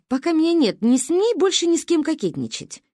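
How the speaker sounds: mock stern warning. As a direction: wag a finger at Ba in jest.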